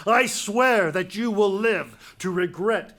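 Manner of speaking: loud, slow, deliberate threat; furious oath. Acted. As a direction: swear it with menace. King swears vengeance.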